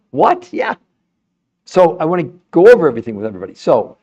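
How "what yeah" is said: laughing what. Real, not acted. Laughs at own claim.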